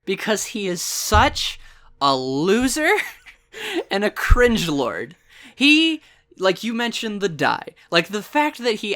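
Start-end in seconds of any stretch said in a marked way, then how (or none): 0.0-5.2 slow, laughing through the words; giggling while calling "such a loser" a cringe lord. Real, not acted. Fan laughing to co-host about a villain, slow and giggling.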